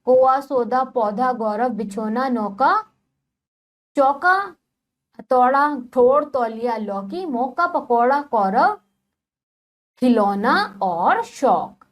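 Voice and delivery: each word spoken clearly, a pause between words; reading a word list aloud. Shown as a demonstration. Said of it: "शब्दों का उच्चारण कीजिए". (शब्दों को साफ़ साफ़ पढ़ना)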